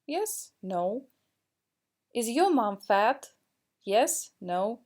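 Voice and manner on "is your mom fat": teacher modelling rising intonation for students; rising question tune. Shown as a demonstration. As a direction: voice goes up on "fat?". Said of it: "we need to raise our intonation".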